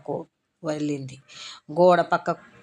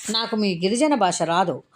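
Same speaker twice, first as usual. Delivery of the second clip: raised impatient voice. Acted. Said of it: "Sarojini గొంతు కొంచెం పెరిగింది".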